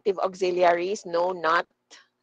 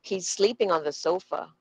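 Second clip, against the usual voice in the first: "on the" quick and light, "sleeping" and "sofa" stressed; quick unstressed words. Shown as a demonstration. Teacher repeating for students, quick light "on the" between stressed words. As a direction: lean on "sleeping", skim "on the". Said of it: "one more time".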